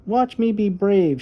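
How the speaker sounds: put-on high, eager child's voice; little girl voice. Little Violet telling her brother about the dark, high and earnest. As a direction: play the small sister talking herself brave.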